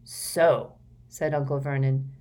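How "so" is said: loud. Acted. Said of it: "voice restored to full and considerable volume".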